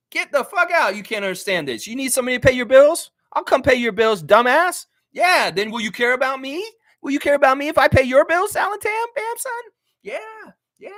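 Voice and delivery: high, loud, incredulous tirade at a heckler; angry rant. Real, not acted. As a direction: climb into a strained, high-pitched yell. Mock rant at banned chat commenter.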